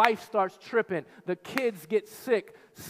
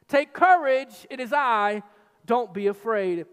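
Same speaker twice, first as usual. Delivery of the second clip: commanding call; 6 dB louder than usual. Acted. Jesus calling to terrified disciples across the waves, strong and commanding. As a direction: call over the storm with authority.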